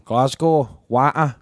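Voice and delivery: broad Glaswegian vowels on "Glasgow" and "water"; Glaswegian accent. Shown as a demonstration. Showing off Glaswegian sounds to friends, "water" and "Glasgow" in broad Scots. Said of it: "accent update".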